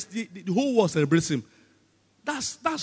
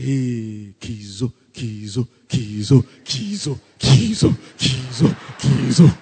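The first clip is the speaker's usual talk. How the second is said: repeated chant building louder; hailing crowd; 6 semitones lower, 6 dB louder, slower than usual. Acted. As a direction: hail a hero, louder with each call. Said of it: "people that are hailing you".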